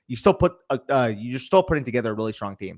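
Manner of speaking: muffled, blurred words. Real, not acted. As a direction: speak a bit muffled. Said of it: "Sorry, I kinda muffled up there".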